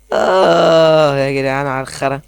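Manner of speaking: slow, whining complaint; frustrated groan. Real, not acted. Gamer whines to the viewers after failing, slow. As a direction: drag it out in despair.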